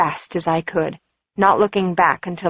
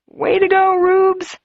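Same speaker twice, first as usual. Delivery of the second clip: high, bright inner cheer; root for her under your breath; cheering inwardly; 13 semitones higher, 3 dB louder, slower than usual. Acted.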